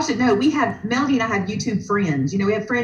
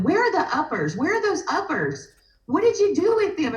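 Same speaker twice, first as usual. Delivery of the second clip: higher-pitched mock plea for something lost; imitating searching guest; 8 semitones higher than usual. Card-party guest asking the group for her supplies, imitated searching voice. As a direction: playfully imitate a woman hunting for supplies.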